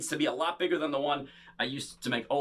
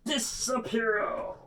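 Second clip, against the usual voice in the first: spell word; 5 semitones higher, slower than usual. Shown as a demonstration. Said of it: "we're gonna yell out".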